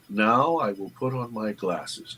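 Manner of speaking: deliberate slow demo. Shown as a demonstration. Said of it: "the pattern of saying".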